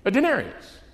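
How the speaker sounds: mounting disbelief. Acted. Six o'clock worker watching others get paid, increasingly incredulous. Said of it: "He's down there watching this going".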